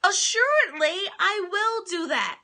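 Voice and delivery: a touch of defiant swagger; defiant reply. Retold or imitated. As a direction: rise in defiance, word by word. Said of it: "And you're saying".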